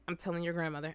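low, soft warning; stern aunt. Retold or imitated. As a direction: imitate a quietly threatening aunt. Imitating the aunt threatening to tell.

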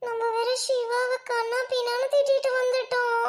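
slow, drawn-out regret; rueful. Acted. Girl deciding to apologise to her boyfriend, rueful. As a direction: stretch the words out in sheepish remorse.

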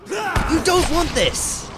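high, slow taunting voice; mock taunt. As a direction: drag out the taunt. Taunting a zombie.

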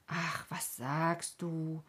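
slow, drawn-out disbelief; astonished exclamation. A narrator's reading. Stineli reacting to Rico not feeling at home, astonished. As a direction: stretch the question out in astonishment. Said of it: "rief Stineli und warf vor Erstaunen".

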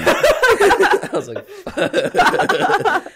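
high, breaking into laughter on fuck; real laughter at his own blunder; laughing curse. Real, not acted. Guest laughing telling own blunder.

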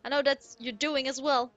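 put-on Goron boss in a rough Irish accent; put-on Irish-ish brogue; attempted Irish accent. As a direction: read it hearty, with a shaky stab at Irish. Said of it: "I always do my Irish accent".

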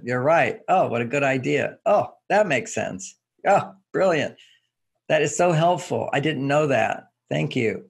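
sincere, delighted acknowledgement; gushing appreciation. Shown as a demonstration. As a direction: pour on the appreciation like she just made your day. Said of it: "I'll say it again".

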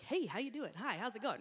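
a hint of glad-handing mayor; friendly mayor. Speaker walking out mid-sermon greeting all, light mayor cheer. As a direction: greet everyone like a politician. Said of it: "I'm like the mayor".

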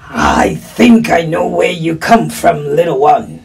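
put-on voice of a helpful wolf. Wolf reassuring a lost little one, creature voice. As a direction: play the wolf talking to a child.

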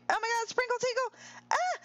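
high, quick exclamation; real high-pitched excitement; excited outburst. Real, not acted. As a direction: blurt it high and fast. Sudden excitement in the game.

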